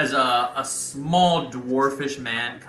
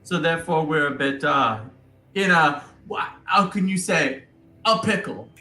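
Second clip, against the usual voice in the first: put-on higher, fumbling Italian accent; 8 semitones higher than usual. Bobo explaining the alliance to the deputies, fumbling Italian accent. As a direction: search for the right word, Italian-style.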